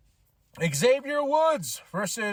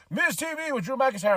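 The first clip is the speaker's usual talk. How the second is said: lineup announcer; 6 semitones higher than usual. Retold or imitated. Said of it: "they were announcing the lineup".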